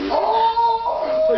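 high exclaimed oh; mock surprise. Retelling own reaction on the run, surprised. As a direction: react like you saw a blunder. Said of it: "And I was like".

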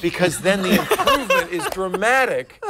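chuckling through the words; laughing. Real, not acted. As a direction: laugh while you say it. Joking about being a drunk.

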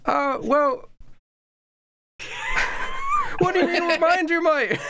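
high, far-off Cockney pirate captain, friendly but bossy; the captain calls out to his new recruit, high and mocking. GM as pirate captain greeting a fisherman, high cheeky voice.

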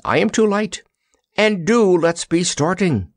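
high, earnest urging. A narrator's reading. Scarecrow urges the soldier to set off, earnest. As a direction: plead to get moving. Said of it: "directed the Scarecrow earnestly".

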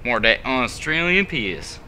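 slow, drawn-out attempt at an Australian accent; lightly hammed-up Australian accent. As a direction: put on a rough go at an Australian accent. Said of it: "That was an Australian accent".

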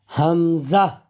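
হামজা with breath at the end; hamza. Shown as a demonstration. Teacher naming hamza to students. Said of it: "শেষে বাতাস হবে".

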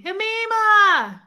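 light up as you call out her name; excited greeting. Real, not acted. Greeting a viewer returning to chat.

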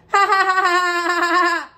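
real loud burst of laughter. Real, not acted. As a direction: crack up out loud at the joke. Laughs at own prank.

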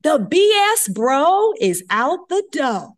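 high, loud, slow bragging; gloating brag. Retold or imitated. Intern bragging to her senior resident, slow gloating shout. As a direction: savour the win out loud.

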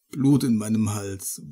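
gurgling through blood; choked, gurgling dying voice; death rattle. Acted. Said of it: "Worte werden zu feuchtem Gurgeln".

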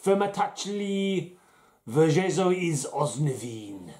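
mock Slovenian accent. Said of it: "let's put on my best Slovenian accent".

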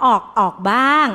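patient hedging, in a put-on voice; hesitant patient. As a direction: lightly voice a patient who stalls. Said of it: "จริงๆ คนไข้บอก".

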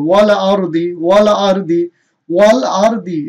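thick r closing আর in ওয়াল আর দি; heavy R. Shown as a demonstration. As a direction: recite ওয়াল আর দি deliberately, r kept heavy. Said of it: "রটাকে মোটা করে পড়". (ওয়াল আর দি-তে র মোটা করে)

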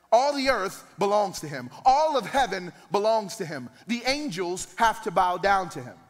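rising fervent sermon; preaching at full force. Real, not acted. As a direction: build the crowd with repetition.

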